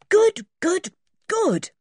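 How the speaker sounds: high, pleased repeats; rubbing hands with glee; gleeful good, good; delighted. A narrator's reading. Dick delighted.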